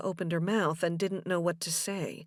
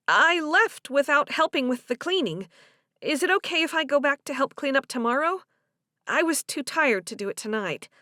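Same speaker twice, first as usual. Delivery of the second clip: a hint of an apologetic woman, higher at first; lightly voiced Delia; 5 semitones higher, 4 dB louder than usual. Delia asks Joe about coming back to clean, lightly apologetic. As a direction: lightly play her asking leave to return.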